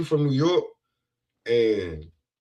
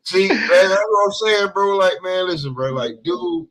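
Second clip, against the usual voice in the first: high, pleading exasperation; whiny Sean-like voice; 5 semitones higher than usual. Real, not acted. Pleading with friends who keep joking, high exasperated voice. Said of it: "That's how Schofield sound all the time".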